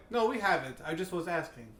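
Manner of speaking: half-hearted imitation of a French accent; lightly attempted, unconvincing French accent; bad French accent. Festival server answering about beer, bad French accent. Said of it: "That was my French".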